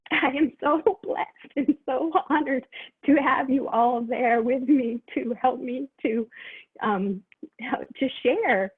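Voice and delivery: fighting back grateful tears as she thanks them; getting emotional. Real, not acted. Thanking her team, voice welling up with emotion. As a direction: voice lifting and catching with feeling. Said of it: "sorry, I'm getting emotional".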